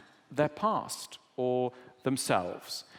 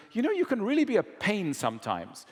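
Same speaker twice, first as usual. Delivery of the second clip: fast, higher, mildly exasperated snap; mock angry wife; 7 semitones higher, faster than usual. Wife fed up with husband on the phone, mild mock anger. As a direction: let the irritation spill out quickly. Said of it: "the wife gets angry and goes".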